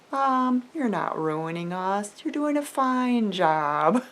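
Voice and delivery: calm retold reassurance; steady, unhurried comforting of a worried parent. Sons reassuring their emotional mom, calm. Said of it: "very calmly".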